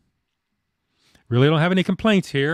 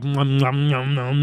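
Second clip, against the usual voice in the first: chewing noises; 4 semitones lower, slower than usual. Retold or imitated. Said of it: "mukbang is like".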